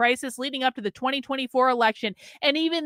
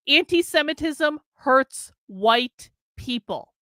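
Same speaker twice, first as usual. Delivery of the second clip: slow mocking quote; slower than usual. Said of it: "this is what Chris Rufo said".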